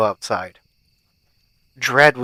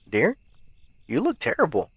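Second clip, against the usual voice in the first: soft, higher wifely concern; hushed, caring tone with a lift in pitch; 4 semitones higher, 5 dB quieter than usual. A narrator's reading. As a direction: gently voice a worried wife. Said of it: "she said, full of concern".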